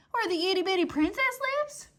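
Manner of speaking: put-on high, wondering girl's voice; awed Mig. Mig asking the soldier about the princess, high and dreamy. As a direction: say it with wide-eyed wonder.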